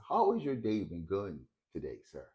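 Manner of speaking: an even, unhurried question; calm voice. Retold or imitated. Old man calmly asking the angry street person, calm voice. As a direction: ask it calmly, defusing the anger. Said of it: "said to him in a calm voice".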